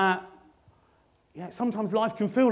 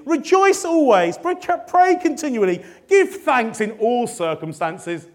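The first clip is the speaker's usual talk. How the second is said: emphatic scripture quote; 3 semitones higher, 5 dB louder than usual. Acted.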